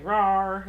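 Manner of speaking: playful mild roar, drawn out; mock yelled roar. Quilter imitating her husband playing with their daughter upstairs, mock roar. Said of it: "my husband's yelling".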